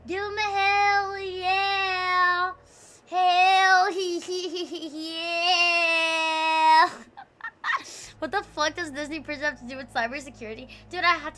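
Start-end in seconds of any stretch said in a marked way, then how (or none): 0.1-2.5 hype call. Real, not acted. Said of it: "Chad, give him a hell yeah". 3.1-6.9 laughing hell yeah. Real, not acted.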